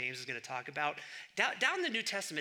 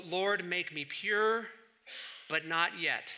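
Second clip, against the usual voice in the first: drawn out slowly like a solemn prayer; slow recited prayer; slower than usual. Retold or imitated. Preacher quoting Augustine's famous prayer, slow solemn recital. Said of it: "how did it go?".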